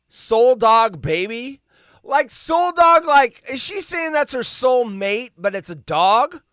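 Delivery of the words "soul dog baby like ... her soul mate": high, slow disbelieving repeat; incredulous. Real, not acted. Mocking the soul dog phrase, high and slow. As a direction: savor the absurd phrase, baffled.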